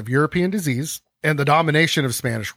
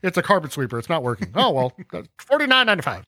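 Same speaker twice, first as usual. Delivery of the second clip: higher, mock cheesy salesman; salesman pitch; 5 semitones higher than usual. Host as the vacuum salesman, mock cheesy pitch. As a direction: sell it like a cheap vacuum. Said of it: "door-to-door salesman".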